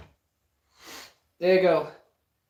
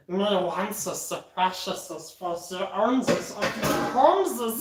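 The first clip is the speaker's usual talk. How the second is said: slow, hissy creature voice; creepy creature; slower than usual. Acted. Creature fussing over the precious, slow creepy voice. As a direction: draw out the s sounds slowly.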